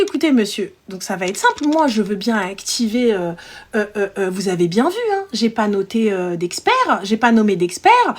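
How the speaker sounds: low, measured, hesitant explanation; polite, controlled customer-service tone; composed phone voice. Retold or imitated. Agent explains the file to the client, measured and professional.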